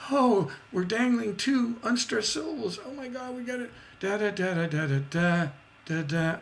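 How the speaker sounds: high, breathless excitement; excited inner voice. Retold or imitated. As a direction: gasp it out, thrilled it works. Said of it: "that same feeling of".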